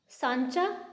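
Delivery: सांचा with a nasalised first vowel; stretched, nasal सांचा; nasal vowel demo. Shown as a demonstration. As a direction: let सांचा ring through the nose. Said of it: "हमें ने की सी ध्वनि आ रही".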